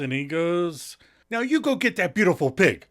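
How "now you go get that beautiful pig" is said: lightly acted cheerleading, pitched up; a mock pep talk, higher voice; cheerleader for Ross. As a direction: egg a buddy on like a cheerleader. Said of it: "as he's playing cheerleader for Ross".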